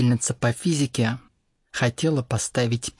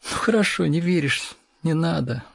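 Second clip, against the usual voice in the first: higher-pitched, smiling give-in; smiling, conciliatory; 5 semitones higher, 3 dB louder than usual. A narrator's reading. Teacher backing off from a stubborn pupil, smiling and conciliatory. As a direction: give way with a smile, lifting the pitch. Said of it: "улыбнулась она".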